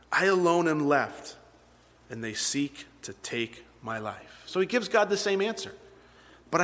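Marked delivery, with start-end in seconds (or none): 0.1-4.4 slow down and let the voice drop away; forlorn. Acted. Reads Elijah's complaint to God.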